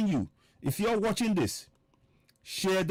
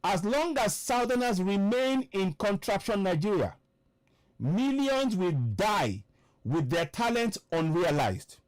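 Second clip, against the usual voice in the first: slow, weighty emphasis on MILLIONS WILL DIE; emphatic; 3 semitones higher, slower than usual. Real, not acted. Broadcaster reads a warning to listeners about millions dying, emphatic. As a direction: stretch out MILLIONS WILL DIE with firm force. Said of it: "And I say this emphatically".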